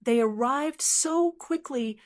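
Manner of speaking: through gritted teeth. Acted. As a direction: grit out the words, tense. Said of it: "he gritted his teeth".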